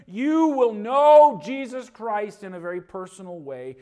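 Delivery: loud, high revival preaching; preaching at full force. Acted. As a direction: drive it home to the congregation. Preacher builds to emphatic point.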